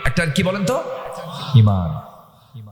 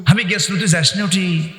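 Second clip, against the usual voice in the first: Bogura dialect; 3 semitones higher than usual. Retold or imitated. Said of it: "বগুড়ার ভাষার মধ্যে একটা মজা আছে".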